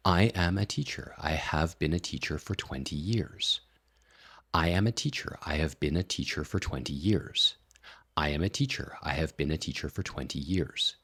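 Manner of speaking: separated words with melodic rises; each word distinct, adding tune; with added tonality. Shown as a demonstration. Teacher demonstrating the presenter voice with tonality. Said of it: "start adding that tonality in as well".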